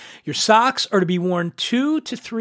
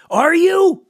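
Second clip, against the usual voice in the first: higher, louder jeering are you; mock taunting shout; 11 semitones higher, 6 dB louder than usual. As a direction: bark it at the crowd like a drill sergeant. Taunt repeated, shouted take.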